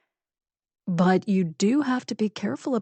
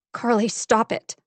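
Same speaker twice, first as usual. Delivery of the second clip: tearful plea; 2 semitones higher than usual. A narrator's reading. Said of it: "the change in Allison's voice".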